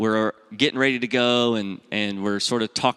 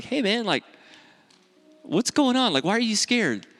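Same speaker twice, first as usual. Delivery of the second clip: put-on higher-pitched, coaxing questions to a scared kid; coaxing dad; 11 semitones higher than usual. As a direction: imitate a parent gently probing a child's fear. Dad gently questioning his scared son.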